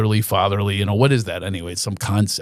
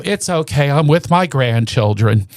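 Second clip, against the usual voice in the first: higher mock-brave mom; mother consoling herself; 3 semitones higher than usual. Son voicing mother cheering herself up. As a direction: sigh it off like a proud grandmother. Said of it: "but then she go".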